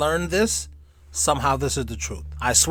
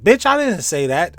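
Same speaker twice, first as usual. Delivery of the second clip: mock retort; 3 semitones higher, 6 dB louder than usual. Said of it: "it seems like Stephen Hawking said".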